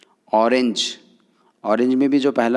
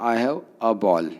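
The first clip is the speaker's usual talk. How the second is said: slow example; much slower than usual. Shown as a demonstration. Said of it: "तो क्या हो जाएगा".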